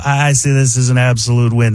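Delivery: airy aw-shucks Ruffalo; Mark Ruffalo. Retold or imitated. Comic morphing Kermit down, airy Ruffalo. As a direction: add air and aw-shucks. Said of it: "it's Mark Ruffalo".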